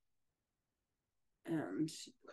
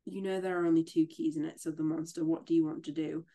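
lively read-aloud of a novel passage, a little louder; story reading; 3 dB louder than usual. A narrator's reading. Friend reads the Phantom novel aloud, livelier and louder. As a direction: read the scene to a friend, dramatically.

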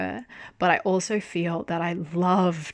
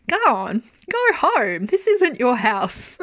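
higher, louder mock scolding at the character; exasperated yell; 6 semitones higher, 5 dB louder, slower than usual. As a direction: shout at him to go home, half laughing. Exasperated telling Gaon off.

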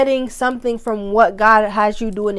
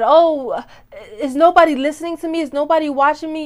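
higher, quicker whiny complaint about no viewers; mock self-pity; 5 semitones higher than usual. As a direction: play the pouting creator nobody watches. Mock complaint of a discouraged creator.

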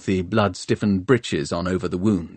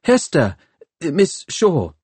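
calling after her; 8 semitones higher, slower than usual. A narrator's reading. Calling after her as she leaves.

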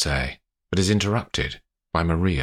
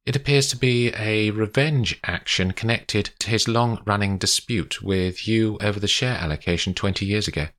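lightly voiced lawyer, higher at the start; composed lawyer; 4 semitones higher than usual. Olivia tells Paddy what the letter appears to be, composed. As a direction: give a measured legal assessment.

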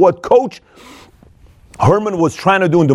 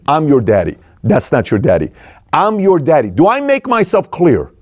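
stern coach; 4 semitones lower than usual. Retold or imitated. Coach asserting authority over player.

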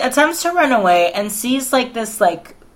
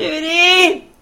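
fond cry; 9 semitones higher than usual. Acted. Fond exclaim of name.

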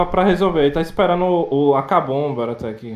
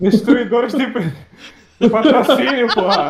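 laughing; 8 semitones higher, 3 dB louder than usual. Acted. Joking chant of group name.

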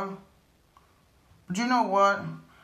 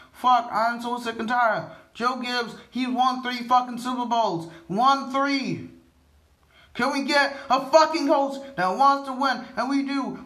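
angry rant; 5 semitones higher than usual. Real, not acted. Fan ranting about the team's coaching, angry and raised.

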